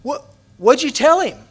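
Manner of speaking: can't wait to hear the answer; curious call. Retold or imitated. Speaker calling to Dennis as he returns, eager. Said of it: "I said".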